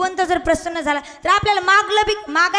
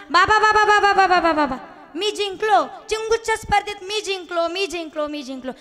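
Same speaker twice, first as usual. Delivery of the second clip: put-on excited boy. Son tells father he won the contest, excited. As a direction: crow over a win, repeating it eagerly. Son jumping, boasts of his win.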